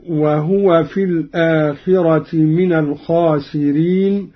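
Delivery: وهو recited fully as wahuwa; Quran recitation. Shown as a demonstration. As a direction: give وهو a voiced hu, wa-hu-wa. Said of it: "قرأ قالون بإسكان الهاء".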